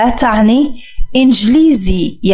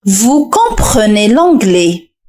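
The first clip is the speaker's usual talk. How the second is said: "Vous comprenez l'anglais" very slow and clear; slow answer; much slower than usual. Shown as a demonstration. Teacher reveals the answer to the learners, slowly. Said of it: "حاول أن تركب هذه الجملة".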